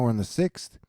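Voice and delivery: normal talking voice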